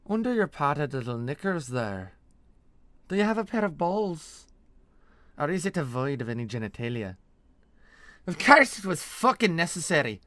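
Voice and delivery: put-on accented tirade, bursting high and loud; Nesrathi mercenary, scornful. Mercenary mocking her squeamish partner, scornful. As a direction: berate your partner with loud contempt. Veliana scolds Vold.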